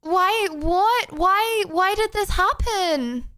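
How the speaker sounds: baffled, pleading why; exasperated. Real, not acted. Tech breaks again on stream.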